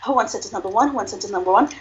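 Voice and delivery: auctioneer. Shown as a demonstration. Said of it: "you could sell it like this".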